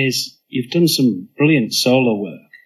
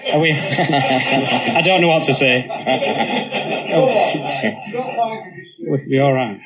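laughing; 2 semitones higher than usual. Real, not acted. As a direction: caught out, laughing through the words. Host laughs after being teased.

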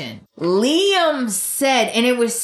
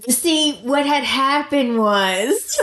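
slow, lightly voiced Liam excuse; imitating Liam; 3 semitones higher, slower than usual. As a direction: drag it out like a guy making excuses. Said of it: "that's what he sounded like".

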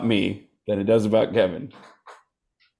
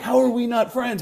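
exasperated self-questioning; 10 semitones higher than usual. Retold or imitated. Acting out his insecure frustration.

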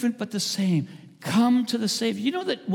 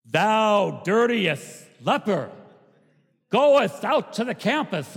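mock Pharisee scorn; 3 semitones higher, slower than usual. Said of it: "their approach would have been something like".

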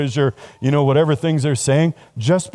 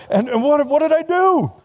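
baffled protest; 11 semitones higher than usual. Retold or imitated. Employee mocked by his boss, high baffled protest. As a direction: voice shooting up high.

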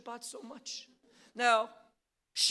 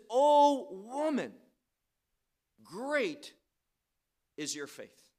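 O woman rung out louder, great is your faith falling away; emphatic proclamation; 6 dB louder than usual. Acted. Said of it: "is emphasizing his response".

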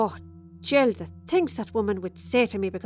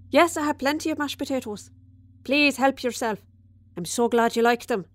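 hostess aside; 3 semitones higher than usual. Real, not acted. Aside to guest at table.

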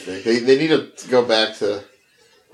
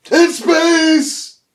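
horror trailer voice; 4 dB louder, much slower than usual. Pretend. Mock movie trailer tagline.

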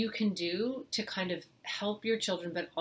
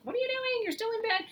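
much higher, whiny nag; mock nagging parent; 4 dB louder than usual. Parent nagging a child still lying in bed, high mock scold. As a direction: squeal it like an exasperated parent. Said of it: "It's not like".

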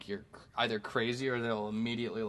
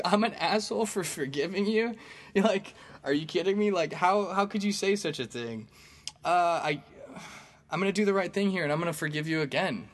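high-pitched, incredulous comeback; indignant protest; 6 semitones higher than usual. Retold or imitated. Comedian retelling his reply to the girl online, indignant. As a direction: protest in mock outrage, pitched well up.

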